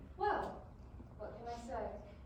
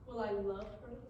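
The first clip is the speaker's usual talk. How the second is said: laughing; 5 semitones higher than usual. Acted. Laughing at his own fantasy.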